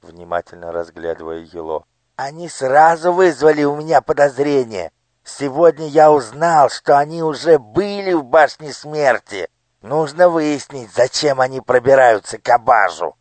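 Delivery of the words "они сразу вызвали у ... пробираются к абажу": high, commanding minister's voice; a cold lord issuing orders to his daughter; scheming minister. Acted. Minister suspects the pages. (властный голос министра)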